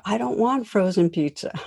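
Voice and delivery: a hint of a whiny four-year-old; lightly voiced refusing kid; resisting child. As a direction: son refuses dinner to his mom, mildly whiny. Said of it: "her four-year-old son resists".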